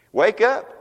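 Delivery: rousing call. Acted. Preacher urging dead Christians to wake. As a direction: stir them awake. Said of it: "preacher exhorts".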